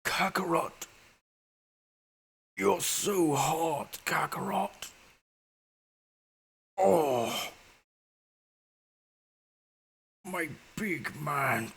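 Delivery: high falsetto, very slow and drawn out; lovestruck Vegeta. Retold or imitated. Vegeta flirting with Goku, slow high falsetto. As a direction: ham up the crush, stretching every word. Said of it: "He's all like".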